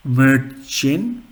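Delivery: Märchen with a long first vowel; long A umlaut. Shown as a demonstration. Teacher giving the long umlaut example, careful pronunciation. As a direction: say Märchen carefully in two parts. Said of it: "long is".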